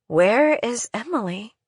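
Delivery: dry, husky question. Acted. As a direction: ask with a dry, husky throat. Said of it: "her voice dry and husky".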